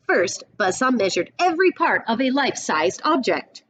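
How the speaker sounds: put-on storyteller reading a picture book to kids; read-aloud storybook voice; story narration. A narrator's reading. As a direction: paint the western showdown for the class.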